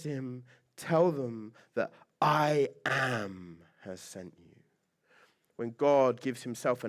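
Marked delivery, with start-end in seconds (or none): 0.8-4.4 slow, weighty voice of God; booming God voice. Acted. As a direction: deliver it like the voice from the bush, slowly. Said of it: "This booming voice".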